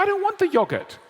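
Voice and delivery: very high, loud exasperated refusal; whiny protest. Retold or imitated. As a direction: whine like a frustrated customer. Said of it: "And you go".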